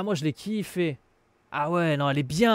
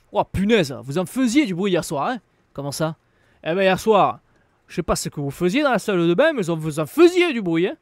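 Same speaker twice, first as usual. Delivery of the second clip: put-on loud southern French Marseille accent; 6 dB louder than usual. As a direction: sing it out like a Marseillais. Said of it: "je te fais un, un accent marseillais".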